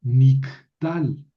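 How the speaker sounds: "niktal" dicho despacio y claro, sílaba por sílaba; pronunciación modelo. Shown as a demonstration. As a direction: deletrea "niktal" despacio para la clase. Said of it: "así se llama el verbo nif'al, con el verbo katal es". ("niktal" pronunciado lento y marcado)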